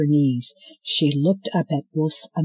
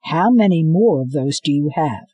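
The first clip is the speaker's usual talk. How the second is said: urgent question; 4 dB louder than usual. Acted. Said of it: "the man behind her said".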